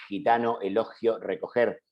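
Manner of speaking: "gitano, elogio, recoger" with Spanish J sound for G; listed examples, G like a J; fricative G. Shown as a demonstration. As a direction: say each G as a voiceless velar fricative. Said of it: "cómo suena la G en estas últimas palabras".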